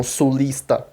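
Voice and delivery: "sulista" with a plain SS before the T; southern Brazilian S. Shown as a demonstration. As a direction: say "sulista" like a southerner, S never hushed. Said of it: "falar que nem um sulista".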